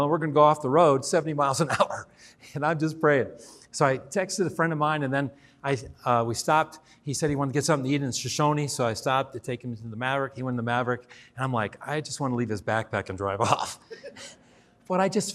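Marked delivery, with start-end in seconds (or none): 0.0-2.1 a fast line that breaks into a real laugh. Real, not acted. Laughs while telling his fear. 11.9-13.8 a quieter line that ends in a real laugh. Real, not acted. Laughs at his own wish to escape.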